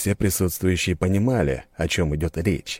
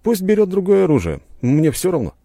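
light, higher, offhand reply; shrugging indifference; 13 semitones higher, 5 dB louder than usual. A narrator's reading. Hero shrugging at the steward, unbothered. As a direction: shrug it off casually. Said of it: "пожал плечами я".

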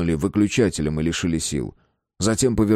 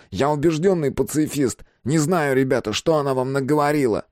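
high, reedy self-defence; nasal, protesting little man; thin nasal voice; 6 semitones higher than usual. A narrator's reading. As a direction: deny it all in a thin, high voice. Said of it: "Гнусаво и тоненько произнёс он".

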